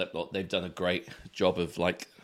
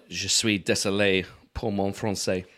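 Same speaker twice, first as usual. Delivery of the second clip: plain English-accented French. Shown as a demonstration. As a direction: say it as a Brit speaking French. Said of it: "That's what I say".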